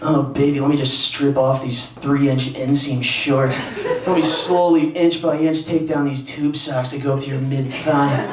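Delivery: slow, drawn-out mock seduction; lightly acted bedroom come-on; mock dirty talk. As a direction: tease it out slowly, hamming up the dirty talk. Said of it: "even their dirty talk's running".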